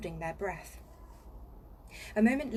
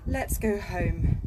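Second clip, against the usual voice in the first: slow, louder pleading; Susan wanting to go home; 7 dB louder, slower than usual. Acted. Susan scared in the wood, slow pleading. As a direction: drag it out, wanting to leave. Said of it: "said Susan".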